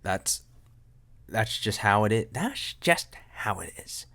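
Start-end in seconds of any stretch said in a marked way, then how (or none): 2.3-4.1 breathy whispered repeat, slow. Pretend. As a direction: hush it like a secret.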